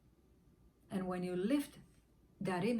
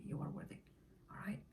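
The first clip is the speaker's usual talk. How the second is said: softer whispered affirmation; 4 semitones lower, 9 dB quieter, faster than usual. Real, not acted. Coach affirming the listener, in a whisper. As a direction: breathe it out in a whisper. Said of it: "affirmation fades out".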